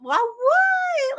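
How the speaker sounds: a high, startled what; confused little girl. Retold or imitated. Retelling her confusion as a little girl when her uncle pushed her away. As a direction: squeak it like a baffled kid. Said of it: "And I was like".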